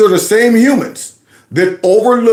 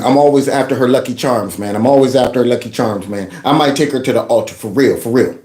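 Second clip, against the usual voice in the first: low-pitched confiding guy talk; acted lovestruck bragging, kept low; smitten guy hyping; 6 semitones lower than usual. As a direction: gush to a buddy about a new girl. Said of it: "pump up somebody they just met".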